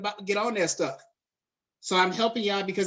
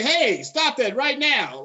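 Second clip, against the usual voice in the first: loud, slow, higher mock command; pretend intervention shout; 5 semitones higher, 5 dB louder, slower than usual. Imagined neighbor running out to stop the attack, mock commanding shout. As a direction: call it out slowly as if stopping an attacker. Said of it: "run out and say".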